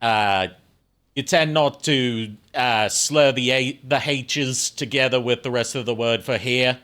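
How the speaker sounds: put-on Australian accent. Shown as a demonstration. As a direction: explain it while imitating an Australian. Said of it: "less of an oi and more of an I".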